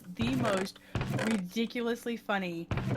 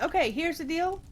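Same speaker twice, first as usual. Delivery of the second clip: lightly put-on Boston accent, pitched up; 6 semitones higher than usual. Diner waitress to newly seated customers, imitated Boston accent. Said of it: "with the heavy Bostonian accent".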